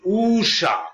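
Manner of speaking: ঊষা with the u held long; long u sound. Shown as a demonstration. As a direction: draw out the u in ঊষা. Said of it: "উচ্চারণ একটু টান আছে".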